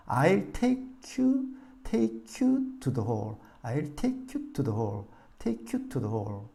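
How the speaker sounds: I'll take you, to the hall, slow, a short break before the chunk; slow phrased drill; chunked with pauses. Shown as a demonstration. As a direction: pause slightly before each word group. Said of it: "호흡을 멈추고 끊는 느낌으로".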